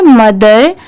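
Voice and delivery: "mother" said as MUDH-er, short uh sound, no O sound; "mother" as mudh-er, not modher; pron mother. Shown as a demonstration. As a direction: say "mother" with a plain uh in the first syllable. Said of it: "इसे मोदर नहीं पढ़ेंगे".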